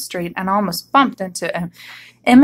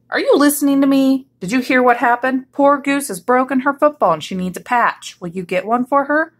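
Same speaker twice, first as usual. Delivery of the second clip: higher-pitched, pressing questions; insistent; 4 semitones higher than usual. Acted. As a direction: press an inattentive listener for an answer. Exasperated Rabbit presses Yak.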